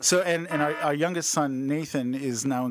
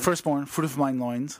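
mock biblical. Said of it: "it always sounds better that way".

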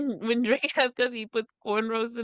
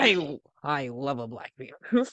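lower, slow, dreamy mock voice; mock breathy confession; 8 semitones lower, slower than usual. Echoing her friend's mockery, lower and slower. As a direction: drawl it out like a swooning fan.

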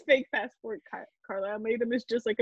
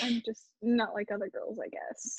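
softer, fading to a whisper; mock Bella; 3 semitones lower, 9 dB quieter than usual. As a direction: trail off into a whisper, mock modest. Mocking Bella's self-description.

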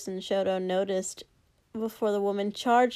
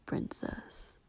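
princess whispered, breathless and soft; teasing whisper; 13 dB quieter than usual. Acted. Katsuki teases drunk Shoto.

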